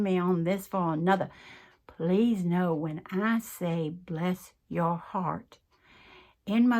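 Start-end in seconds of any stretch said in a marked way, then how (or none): 1.9-5.6 heartfelt slow reassurance; sincere. Real, not acted. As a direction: say it like a blessing. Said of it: "sincere clarifying emphasis".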